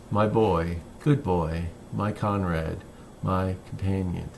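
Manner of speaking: measured poetry reading, phrase by phrase with pauses; poem reading. Acted. Poet reads "Boyhood of a Dog" to listeners, measured recital. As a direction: read it as verse, unhurried, pausing at line breaks.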